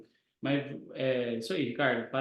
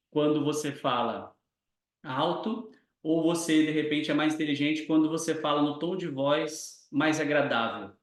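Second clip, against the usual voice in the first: calm demo question. Shown as a demonstration. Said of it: "aquela que você quer".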